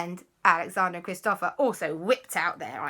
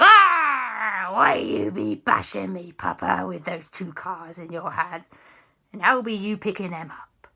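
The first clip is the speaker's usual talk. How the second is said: indignant pirate ghost; 4 dB louder than usual. Acted. Bashed pirate ghost complains.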